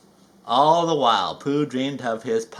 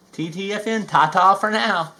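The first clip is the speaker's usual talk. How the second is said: Tigger farewell; 5 semitones higher, 4 dB louder than usual. Acted. Tigger signs off bouncily.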